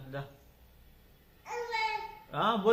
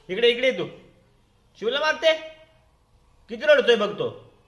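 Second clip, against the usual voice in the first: raised, high-pitched reproach; indignant parental telling-off; scolding parent; 5 semitones higher, 4 dB louder than usual. Real, not acted. Parent scolds over sibling's crying.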